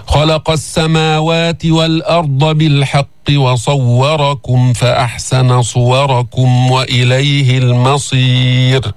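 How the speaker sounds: slow tajweed chant without stopping; Quran recitation. Shown as a demonstration. Teacher models the verse for students, slow connected chant. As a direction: recite straight through without pause.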